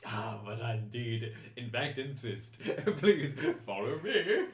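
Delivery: gallant chancellor. Acted. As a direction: usher them along with courtly flourish. Chancellor gallantly insists on escorting.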